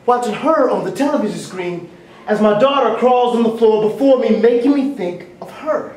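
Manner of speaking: rhythmic performance poetry, rising and falling; stage poem recital with swells and pauses; spoken word poem. Acted. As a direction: deliver it like a slam poet on stage.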